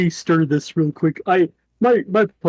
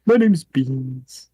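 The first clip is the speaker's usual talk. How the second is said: slow panda voice; much slower than usual. Acted. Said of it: "a standing panda just go".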